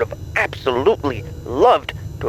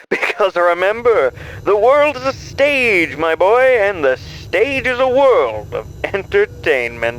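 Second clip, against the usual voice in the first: showman flourish; 5 semitones higher, 3 dB louder than usual. Acted. Showman sending host onstage.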